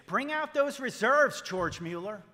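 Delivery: a loud, lofty mock challenge from God. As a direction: call him out as God himself. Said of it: "God would say".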